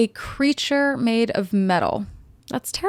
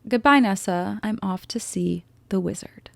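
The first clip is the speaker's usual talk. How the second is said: whispered farewell. Retold or imitated. Elphaba whispering goodbye to Nessa, hushed. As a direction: whisper it like a secret exit.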